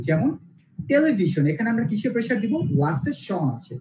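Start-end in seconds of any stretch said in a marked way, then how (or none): 0.9-1.4 টেলিভিশন with ভি stressed; stress before shon. Shown as a demonstration. Teacher showing the shon rule, টেলিভিশন stressed on ভি. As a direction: hit ভি in টেলিভিশন, then fall. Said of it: "এটাতে আমরা pressure দিব".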